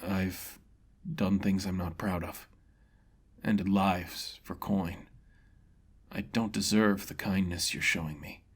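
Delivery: defeated man admitting his sins; ashamed confession. Acted. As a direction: confess with quiet shame. Mercenary ashamed.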